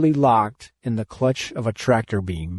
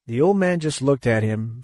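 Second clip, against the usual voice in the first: plain reading voice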